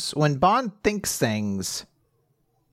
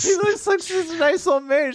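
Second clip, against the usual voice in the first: high-pitched, delighted cooing; squealing fondness; gushing; 10 semitones higher than usual. Real, not acted. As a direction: gush over someone adorable, pitched way up. Gushing repeat about the dog.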